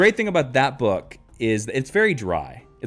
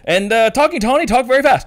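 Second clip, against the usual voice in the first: rushed reading; 10 semitones higher, 8 dB louder than usual. Retold or imitated. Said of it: "And I'm just like".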